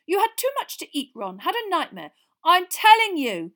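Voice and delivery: high, loud brush-off; dismissive prefect. Acted. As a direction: scold a little brother as silly. Percy dismissing Ron.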